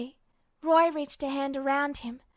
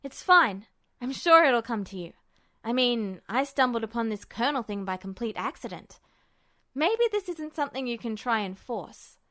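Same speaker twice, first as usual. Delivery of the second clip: reassuring Ed; 2 semitones lower than usual. Acted. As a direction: shrug it off with a grin. Ed reassures, grinning.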